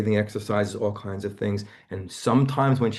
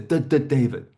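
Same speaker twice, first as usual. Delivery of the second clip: retold stutter; 4 semitones higher, 4 dB louder than usual. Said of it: "She says".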